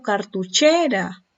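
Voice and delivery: slow cartuchera, weight on CHE; stress on penultimate syllable. Shown as a demonstration. Teacher presenting a grave example, penultimate syllable of cartuchera stressed. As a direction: lean on CHE in cartuchera, slowly. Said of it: "la mayor fuerza de voz está en la".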